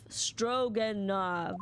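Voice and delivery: Stroganoff repeated very slowly; slow careful Stroganoff; practising the name. Shown as a demonstration. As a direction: drill the name. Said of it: "stringy knot crewman".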